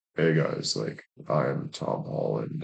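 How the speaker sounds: scary, deep, breathy whispered voice. Describing a man with the deepest voice, imitating his terrifying voice. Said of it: "his voice is like absolutely terrifying".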